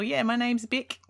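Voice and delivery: Beck said as "Bick", New Zealand vowel; New Zealand accent. Retold or imitated. Singer from New Zealand telling people her name, Kiwi accent. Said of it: "she just kept telling people".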